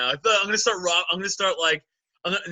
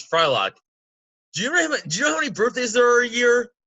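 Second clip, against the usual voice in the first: fast, loud and higher shouted rant; Shake impression; 5 semitones higher, 4 dB louder than usual. Shake lecturing Frylock on birthdays, fast loud shout. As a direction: blurt it like an indignant cartoon. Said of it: "a line he says to Frylock".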